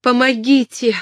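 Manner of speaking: high, loud call for help; cry for help. Acted. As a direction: shout for help to the kitchen. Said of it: "закричала она".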